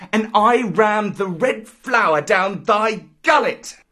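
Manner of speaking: put-on high, fierce jungle boy; threatening Mowgli. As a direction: taunt the tiger and threaten him. Mowgli threatens Shere Khan.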